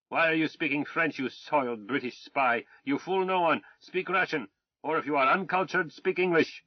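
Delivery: a blustering Tsarist officer shouting insults; arrogant Russian colonel. Acted. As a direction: rage at the British swine with haughty contempt. The Tsar's officer rants.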